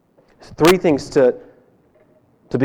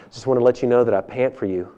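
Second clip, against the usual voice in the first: laughing confession; 4 semitones lower, 4 dB quieter, faster than usual. Acted. Boy's awkward confession, laughing.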